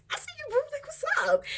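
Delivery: high, loud bro greeting; teasing her friend about looking good; playful hype greeting. Retold or imitated. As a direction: hype him up like a buddy.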